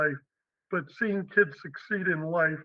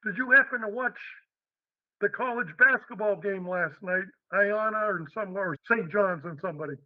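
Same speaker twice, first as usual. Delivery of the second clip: put-on New York accent; 2 semitones higher than usual. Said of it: "with a real heavy New York accent".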